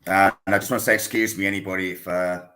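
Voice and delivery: slightly throaty, hoarse speaking. Real, not acted. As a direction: talk through a rough, throaty throat. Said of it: "if I sound a bit throaty".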